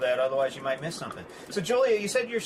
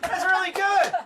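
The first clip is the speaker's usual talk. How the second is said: high laughing praise; 5 dB louder than usual. Real, not acted. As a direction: laugh through the compliment. Host laughing at accent demo.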